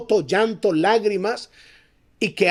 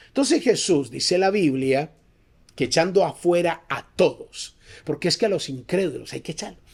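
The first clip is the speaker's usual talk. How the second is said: ordinary talk, nothing marked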